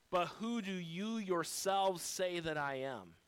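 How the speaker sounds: slow, weighted stress on "yourselves"; emphatic YOURSELVES. Retold or imitated. Jesus pressing the disciples for their own answer, emphatic "yourselves". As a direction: lean firmly into "yourselves". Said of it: "there, it's emphatic".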